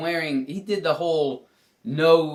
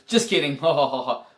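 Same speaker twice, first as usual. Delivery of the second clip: louder, with a fake spelled-out laugh; mock joking; 4 dB louder than usual. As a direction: imitate his forced "just kidding" guffaw. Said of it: "And then he goes".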